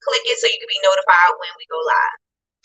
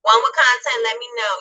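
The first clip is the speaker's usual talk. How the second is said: muffled underwater sound; warbly bad connection. Real, not acted. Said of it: "You sound like you are underwater".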